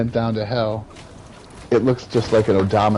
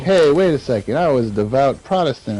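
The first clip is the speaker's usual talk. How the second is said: higher-pitched objection, as a confused newcomer; mock protest; 5 semitones higher, 3 dB louder than usual. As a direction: protest your case, pitched up. Damned souls protest in retelling.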